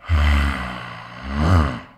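long, low growly sigh; heavy groaning sigh. Acted. Man alone, guilty about fleeing home, heavy sigh. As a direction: let out a deep, drawn-out sigh.

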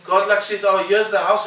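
loud, high and emphatic; loud voicing of God. Preacher voicing God's reply, loud and high. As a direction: announce it with big energy. God's answer acted loudly.

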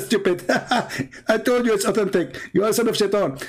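quoting him while laughing; amused, laughing retelling; laughing through the quote. Retold or imitated. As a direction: giggle your way through the insult. Retelling Abdul's insults with laughter.

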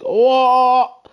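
high, loud disbelief; astonished outburst. Real, not acted. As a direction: blurt it out, utterly amazed. Astonished by the friend's car.

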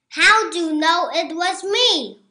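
turkey wailing at being caught. A narrator's reading. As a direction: wail it out. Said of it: "wailed Turkey".

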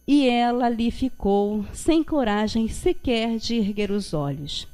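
measured, solemn reading of scripture; story narration. A narrator's reading. Preacher reading the Gospel story to the congregation, measured narration. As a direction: read the passage evenly and gently.

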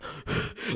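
quiet, voiceless gasp of effort; winded gasp. Retold or imitated. Hiker retelling the climb with a pack, mock winded gasp. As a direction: mimic sucking air under a heavy load. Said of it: "I was talking like freaking Batman".

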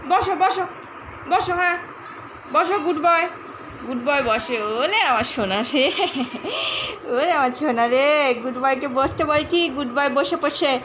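sing-song coaxing a pet; talking to a dog. Real, not acted. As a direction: coo at the dog to sit.

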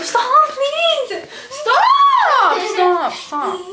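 being tickled. Real, not acted. Sister tickling her.

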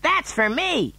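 put-on high, eager child's cry; excited shout. A narrator's reading. Mike grabbing at television chocolate, high and excited. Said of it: "shouted Mike T V".

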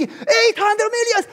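slow, high, loud ecstatic sum; slow high loud euphoric cry. Acted. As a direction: draw out the amazement. Ecstatic repetition.

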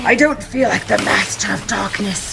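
lightly voiced dark-lord figure; master of darkness. Dark figure complaining to the boy carrying him, lightly put-on villain voice. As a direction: grumble like a dark lord being carried.

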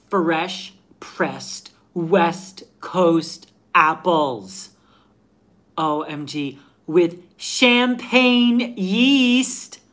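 put-on slow, drawn-out Valley Girl gush; breathless Valley Girl hyping a can; bubbly California Valley Girl read; Valley Girl accent. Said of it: "I will give you my best Valley Girl".

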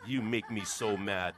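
slow, grumbling line; sulky and slow; grumpy complaint. Shown as a demonstration. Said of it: "Try that one".

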